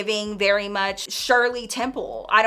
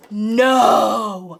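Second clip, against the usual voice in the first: shocked no; 8 dB louder than usual. Retold or imitated. Shocked at who did it.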